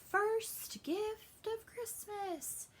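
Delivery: high, very slow, grand Santa voice; a high, stretched-out mock Santa proclamation; Santa announcing. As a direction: draw it out like Santa giving a gift. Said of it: "And he goes".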